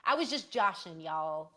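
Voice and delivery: joking, put-on country accent; fake country accent. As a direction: lay on a playful country accent. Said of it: "the country accent I did just twenty seconds ago was fake".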